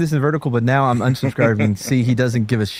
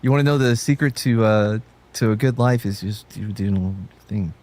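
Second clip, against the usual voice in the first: imitating a motivational talker who trails off; mock pep talk petering out; trailing-off motivation; 2 semitones lower than usual. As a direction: start the life advice, then let it fade away. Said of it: "And then he trails off, just like he does here".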